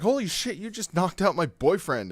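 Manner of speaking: high-pitched panicked gasp of disbelief; shocked girlfriend. Retold or imitated. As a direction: squeal it like she just saw her boyfriend drop. Girlfriend shocked, voiced by teller.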